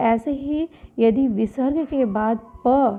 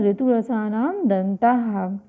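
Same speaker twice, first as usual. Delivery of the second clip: slow sutra recitation; slower than usual. Shown as a demonstration. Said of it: "क्या सूत्र है?".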